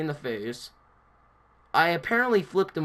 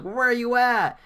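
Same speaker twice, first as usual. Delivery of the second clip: imitated yell; 9 semitones higher, 4 dB louder than usual. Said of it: "he screamed it so loud".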